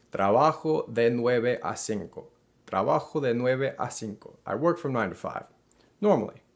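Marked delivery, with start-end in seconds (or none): 0.1-4.4 slow model sentence. Shown as a demonstration. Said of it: "I might say".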